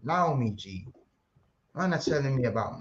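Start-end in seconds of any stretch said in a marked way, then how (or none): 0.0-0.9 mocking. Mocking friend's mispronunciation.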